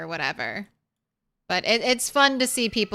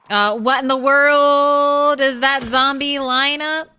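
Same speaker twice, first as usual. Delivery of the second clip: louder, startled disbelief; surprised; 3 semitones higher, 5 dB louder than usual. Real, not acted. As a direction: blurt it out, baffled by the screen. Sees odd zombie group in game.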